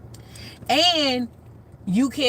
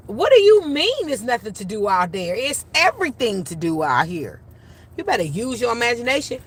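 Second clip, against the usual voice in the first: higher, louder incredulous comeback; indignant retort; 5 semitones higher, 5 dB louder than usual. Retold or imitated. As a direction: throw the complaint back like a fed-up adult. Acted retort to bored children.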